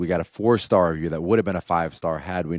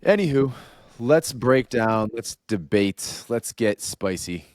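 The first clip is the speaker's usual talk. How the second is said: hype host voice; 4 semitones higher, 4 dB louder, slower than usual. Acted. Hyping up the debate segment.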